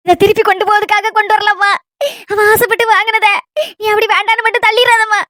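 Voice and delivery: pleading through tears; tearful pleading. Acted. Grandmother tearfully begs granddaughter to accept the gift, crying. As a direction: beg her to accept it, voice catching.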